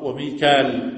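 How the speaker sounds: وميكال said wa-Mikal, no hamza; variant reading. Shown as a demonstration. Teacher shows students another reading, وميكال pronounced wa-Mikal. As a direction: say وميكال as wa-mee-kaal, ending in long a. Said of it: "ومنهم من قرأ".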